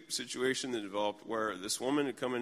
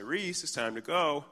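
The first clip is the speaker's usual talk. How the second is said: mild retold call, raised in pitch; calling from hall; 5 semitones higher than usual. Dad to daughter from the hall, mild higher call. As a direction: lightly call a child from another room. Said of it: "I say from the hall".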